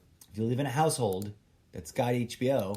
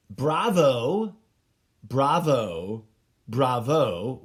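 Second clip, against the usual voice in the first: louder, slow, rising bravos; mock applause; 6 dB louder, much slower than usual. Real, not acted. Praising Westworld like an audience cheering on Broadway. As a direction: call out bravo like from theatre seats.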